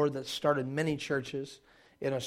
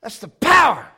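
put-on Australian accent; 9 semitones higher, 11 dB louder than usual. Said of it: "he goes".

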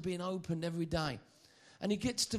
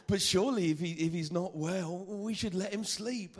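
dim disciple; 4 semitones higher, 4 dB louder than usual. Retold or imitated. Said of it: "one of the bright sparks".

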